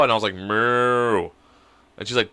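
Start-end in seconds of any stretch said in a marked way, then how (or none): 0.3-1.3 long drawn-out moo; cow moo. Retold or imitated. Dad teasing daughter with the wrong animal noise, cow moo. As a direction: imitate a cow's moo. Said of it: "I know what a horse sounds like".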